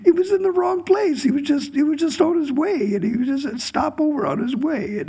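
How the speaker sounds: very high, laughing through the words; amused, barely holding back laughter; laughing while telling. Real, not acted. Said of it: "It's a funny thing".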